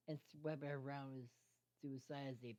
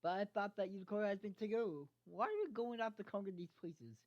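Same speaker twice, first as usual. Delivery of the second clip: raised, louder puzzled protest; confused question; 5 semitones higher, 4 dB louder than usual. Acted. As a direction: push back, baffled and louder. Confused stallion questions pegasus.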